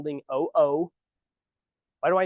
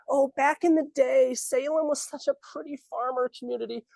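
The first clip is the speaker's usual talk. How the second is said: mocking council voice; 7 semitones higher than usual. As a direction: drag it out like a wistful old-timer. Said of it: "the city council that's saying".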